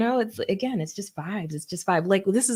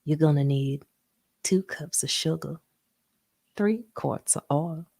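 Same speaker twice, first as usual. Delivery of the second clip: Paula Deen impression. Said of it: "and she's like".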